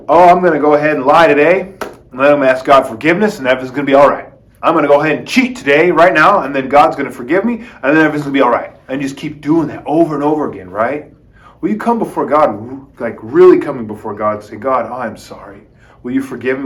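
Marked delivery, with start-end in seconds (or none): 0.1-8.7 careless excuse-maker. Retold or imitated. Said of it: "you're gonna go". 14.6-16.7 humble prayer. Retold or imitated. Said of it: "with that humble sort of".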